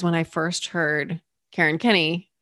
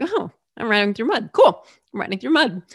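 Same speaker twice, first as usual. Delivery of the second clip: breezy shrug at the same trouble; cheerful acceptance; 3 semitones higher, faster than usual. Acted. Cyclist telling herself riding through mud is fine, cheerfully accepting. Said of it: "instead of having that feeling of".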